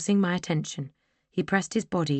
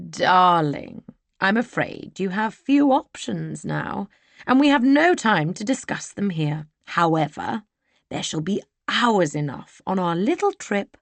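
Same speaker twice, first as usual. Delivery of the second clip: silky menacing villain; 3 semitones higher, 3 dB louder than usual. Acted. Cantrell threatens silkily.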